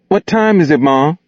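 high muffled voice from under a quilt. Acted. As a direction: speak as if buried under a blanket. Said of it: "muffled adolescent voice from beneath a quilt".

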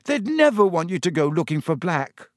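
high-pitched, imploring, near tears; tearful pleading. A narrator's reading. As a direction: beg a friend to see sense. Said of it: "her eyes now shining with tears".

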